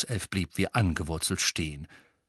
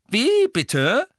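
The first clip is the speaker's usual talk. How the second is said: loud, high challenge; pointed query; 7 dB louder than usual. Acted. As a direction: ask sharply, as if you misheard. George pointedly asks for repeat. (laut nachgefragt)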